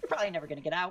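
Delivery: very small, really tiny, high little voice. Telling the players who speak Sylvan what they hear, in a really tiny voice. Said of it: "you just hear this really tiny voice".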